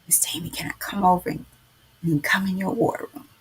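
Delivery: fast, hushed asking; timid whisper. Retold or imitated. Young woman asking Tammy to join her war room, whispered. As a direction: ask shyly under your breath. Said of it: "she asked".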